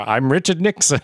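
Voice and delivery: a lightly voiced, barely changed Nixon; a hint of Nixon, hammed-up and bad; terrible Nixon impression. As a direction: do a half-hearted Richard Nixon. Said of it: "that was a terrible accent".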